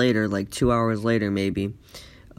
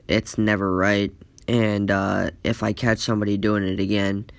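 a lightly lowered, stern teacher voice; 3 semitones lower than usual. Retold or imitated. Teacher warns the class about stealing, lightly lowered stern voice. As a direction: scold the class like a disappointed teacher.

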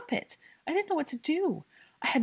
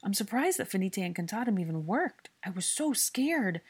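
raised, distressed explanation; rattled off; 5 semitones higher than usual. A narrator's reading. Hermione explaining to Draco after the fright, anxiously rattling off. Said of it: "she rattled off".

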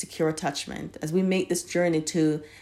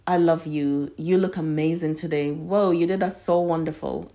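loving, soothing. Shown as a demonstration. Speaking lovingly to yourself in a soothing tone. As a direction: affirm yourself kindly, as if to a dear friend. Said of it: "speak to yourself in a loving, soothing tone".

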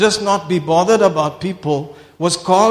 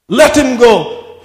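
louder and slowed, LET him go stretched out; drawn-out loud command; 5 semitones higher, 7 dB louder, slower than usual. Retold or imitated. Preacher voicing Wigglesworth ordering the man released, loud and slow. Wigglesworth voiced in healing story.

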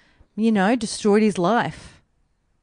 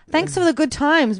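mocking, higher; 6 semitones higher than usual.

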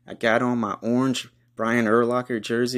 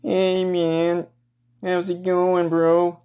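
higher, laid-back stoner greeting; stoner hippie dude; 8 semitones higher, much slower than usual. Acted. Packers fan greets the Bears fan, stoner hippie drawl. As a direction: drift in like a mellow hippie. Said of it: "I see a Packers fan now coming up to me".

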